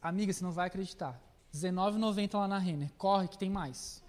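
put-on low, fast gushing girlfriend voice; bubbly sorority girl. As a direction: gush about the bargain, giggling. Gushing about a bargain.

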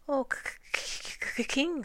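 high, stuttering timid rabbit; frightened little creature's stutter. A narrator's reading. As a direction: stammer on the first sound in fear. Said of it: "The timid little creature stood before him".

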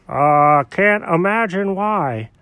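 slow, drawn-out mock wonder; sarcastic. Friend answers cat who lost voice, sarcastic. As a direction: stretch it out with dry sarcasm. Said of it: "I'm being sarcastic".

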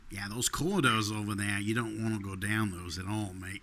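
a hint of country Australian; lightly put-on Aussie warning; mock Australian accent. Host trying an Aussie warning, a mock Australian accent. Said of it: "the accent you're doing".

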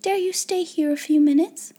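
put-on eager young-girl question; different, practical tone. A narrator's reading. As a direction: invite her with "Dare" stressed. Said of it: "she spoke in a different tone".

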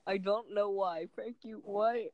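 lightly put-on New York comic accent; hint of New York stand-up accent; New York comedian accent. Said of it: "you're making the voice".

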